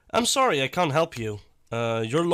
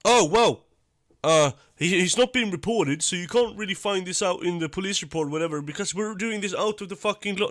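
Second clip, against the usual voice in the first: higher, quicker mock excuse; lightly voiced, sarcastic imitation of the prankster; mocking the YouTuber; 5 semitones higher than usual. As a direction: parody his flimsy excuse, rushing it. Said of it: "he's trying to be like".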